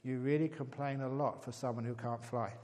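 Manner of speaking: delivered through a laugh; laughing punchline. Real, not acted. Telling the audience the punchline, laughing. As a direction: crack up on the punchline.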